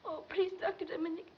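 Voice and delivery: halting plea through tears; tearful begging. Acted. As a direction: plead desperately, voice close to crying. Girl begs to resign quietly.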